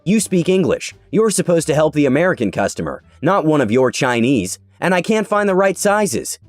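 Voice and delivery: mock the entitled lady's complaint; entitled customer. Rude customer demands service.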